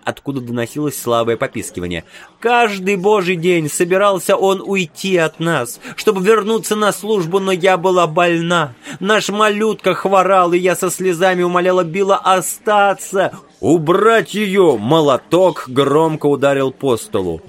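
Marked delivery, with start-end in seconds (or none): 2.4-13.3 crying out. A narrator's reading. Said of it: "продолжала выкрикивать". 13.6-14.8 commanding order. A narrator's reading. Judge orders her out. 14.8-17.4 crying out. A narrator's reading. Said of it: "продолжала выкрикивать".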